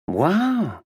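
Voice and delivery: bright surprised American exclamation; American surprise. A narrator's reading. Actress Tina impressed by the detective's guess. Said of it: "She spoke in an American accent".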